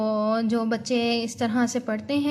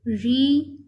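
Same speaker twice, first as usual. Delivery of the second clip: रिटर्न as "रि", long pause, "टर्न"; split into syllables; 3 dB louder than usual. Shown as a demonstration. Teacher breaking up a new word, रिटर्न split in two. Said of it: "इसके अलग-अलग".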